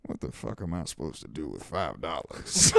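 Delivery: scornful line breaking into laughter; can't keep a straight face retelling it; laughing through it. Retold or imitated. Retelling the woman's scorn for five dollars, laughing.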